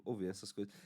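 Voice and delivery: ordinary talk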